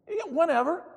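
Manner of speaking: very high, loud and obliging; mock-gushing phone agreement; breezy phone invitation. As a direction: imitate an over-agreeable hostess. Acted wife inviting caller over.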